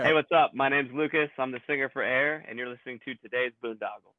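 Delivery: upbeat radio station ID; promo ID. Shown as a demonstration. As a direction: sell the show, hype it up. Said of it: "cut a promo I D for the show".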